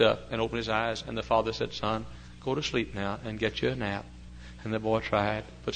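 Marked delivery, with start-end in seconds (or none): 1.7-4.0 gentle coaxing. Retold or imitated. Worried father urging his son to nap, gentle coaxing.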